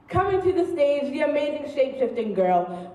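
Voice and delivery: mock show introduction; stage announcer. Poet presenting the shape-shifting girl, stage announcer. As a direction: introduce the act like an emcee.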